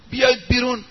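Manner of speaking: commanding call. Retold or imitated. Ordering hiders out of house.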